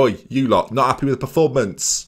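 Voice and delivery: "not" stressed in a sassy, mocking scold at the squad; sassy telling-off. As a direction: tell them off with mock sass on "not". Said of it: "wouldn't say it with that much sass".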